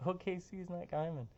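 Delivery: laughing through OKC is not Guymon; laughing repeat. Real, not acted. Forecaster laughing at his own viewer joke. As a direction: chuckle as you say it again.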